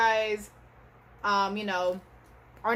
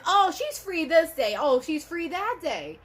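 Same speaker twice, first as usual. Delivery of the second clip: mocking office staff; 3 semitones higher than usual. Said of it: "you don't just assume, like".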